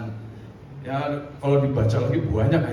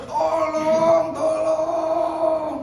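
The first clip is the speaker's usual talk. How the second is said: high, loud shout tolong; louder shout for help; 12 semitones higher, much slower than usual. Retold or imitated. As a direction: yell it out from the cliff. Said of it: "teriak lagi lebih keras". (teriakan tolong yang lebih keras)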